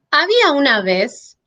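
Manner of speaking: "había una vez" ending on a suspended rise; mid tone left hanging. Shown as a demonstration. Teacher showing students an unfinished sentence, rising mid tone. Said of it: "lo que están intuyendo es el tono medio".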